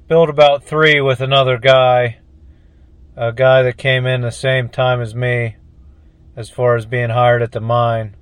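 talking between sips of coffee; words around a sip of coffee; while sipping a drink. Real, not acted. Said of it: "I'm sipping a little bit of coffee".

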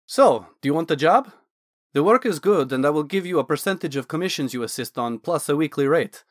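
a hint of an eager Dragonborn scholar; Naz the Dragonborn mage.

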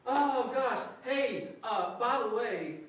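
very high, loud, gushing joy; bubbling over with delight; excited Jesus. Retold or imitated. Jesus greeting the healed man, very high and loud with joy. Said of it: "and he goes".

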